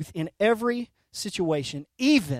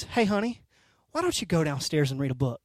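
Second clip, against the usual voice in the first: softly voiced, lightly imitated wife; quiet, quick suggestion, lightly acted; gracious wife; 6 semitones lower, 6 dB quieter, faster than usual. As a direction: gently coax an overwrought husband, voice dropping low. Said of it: "extends grace upon grace".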